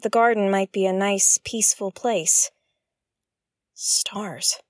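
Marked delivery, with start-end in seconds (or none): 3.7-4.6 whispered curse. Real, not acted. Muttered curse alone in garden.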